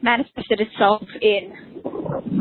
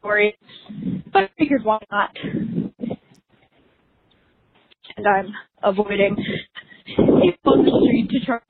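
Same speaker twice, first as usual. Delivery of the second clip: out of breath while walking the dog; panting between words, out of breath. Real, not acted. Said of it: "sounds like I'm extremely out of breath".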